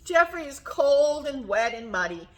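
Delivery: lively storytime reading with stretched key words; reading to children. A narrator's reading. Teacher reading giraffe picture book to children, animated storytelling. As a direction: read it expressively, lingering on the describing words.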